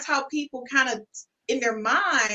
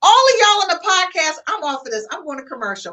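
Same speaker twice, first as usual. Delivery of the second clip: exasperated call out; 5 semitones higher, 7 dB louder, faster than usual. Real, not acted. Host exasperated, escaping.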